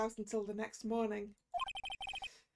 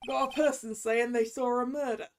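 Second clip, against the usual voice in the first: noir detective; 4 dB louder than usual. Acted. Game detective dialogue voiced.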